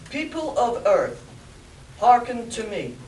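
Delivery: booming alien ruler; Martian overlord voice. Acted. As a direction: proclaim like an alien king. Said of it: "the Martian's voice spoke".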